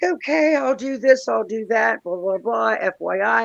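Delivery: high, loud singsong agreeing; exaggerated chirpy yes-I-will; mock compliance. Mimics own eager compliance.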